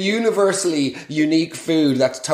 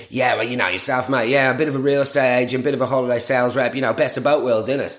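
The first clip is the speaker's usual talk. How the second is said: imitating Chezza; faster than usual. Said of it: "Chezza's reply".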